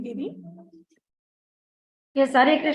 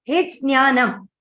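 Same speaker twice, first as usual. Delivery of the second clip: slowed "Hij jnanam" with the first syllable stressed; 3 dB louder than usual. Shown as a demonstration. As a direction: lean on "Hij", then "jnanam". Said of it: "there is a stress".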